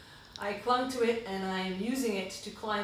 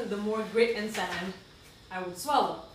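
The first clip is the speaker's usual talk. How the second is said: tearful, half laughing through it; getting emotional; 5 dB louder than usual. Real, not acted. Reading her writing aloud to host, emotional with a laugh. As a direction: push on through tears with a shaky laugh. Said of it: "Sorry, I'm getting emotional".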